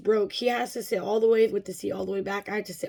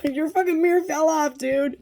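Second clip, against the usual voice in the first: acted indignant comeback, pitched up and loud; exasperated retort; 6 semitones higher, 6 dB louder than usual. Retelling her comeback to her daughter's dad, exasperated. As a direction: throw the blame back, exasperated.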